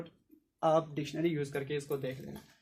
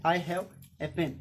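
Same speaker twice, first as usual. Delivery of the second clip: very slow repeat; slow example; much slower than usual. Shown as a demonstration. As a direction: say it slowly again. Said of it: "तब मेरे पास". (बहुत धीरे दोहराना)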